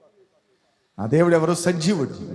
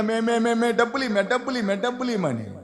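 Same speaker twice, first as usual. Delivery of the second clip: high, repetitive mock begging of a drunkard; whining drunkard; 5 semitones higher than usual. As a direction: imitate a drunk nagging for money. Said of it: "తాగుబోతోళ్ళు ఎంతమంది ఏడుస్తున్నారు".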